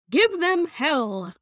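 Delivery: "Give them hell" slowed and prim, fully pronounced; prim tea-sipping voice. Shown as a demonstration. Mocking a too-formal email line, slow and prim. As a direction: say it like a proper lady sipping tea. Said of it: "that seems like I'm sipping my tea".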